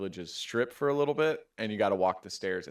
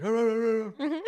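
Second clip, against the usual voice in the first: high mock dog bark; 12 semitones higher, 4 dB louder than usual. Driver after road rage, barking like a dog with a laugh. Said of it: "you do feel like a dog".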